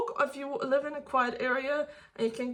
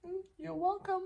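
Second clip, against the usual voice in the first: sarcastic; 6 semitones higher, 9 dB quieter than usual. Real, not acted. Mocking a hateful comment.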